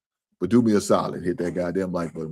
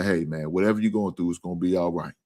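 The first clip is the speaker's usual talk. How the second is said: encouraging words; 3 semitones lower than usual. Retold or imitated. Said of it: "hear somebody's encouraging words".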